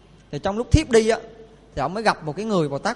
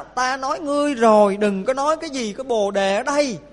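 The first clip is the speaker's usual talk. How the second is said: a hint of a furious old man, higher; angry rebuke; 4 semitones higher than usual. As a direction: snap at him for breaking the rule. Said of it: "thì ông tức quá, ông nói là". (giọng ông già hơi tức giận)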